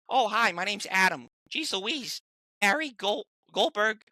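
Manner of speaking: high, strained Adam Goldberg voice, rambling; high, excited Adam Goldberg voice rambling to a fan. Retold or imitated. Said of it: "I was just talking in his voice".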